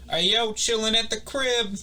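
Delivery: put-on high-pitched party-boy holler; mock party post. Kid posting from his house party, mock hype. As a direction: imitate a hyped kid showing off.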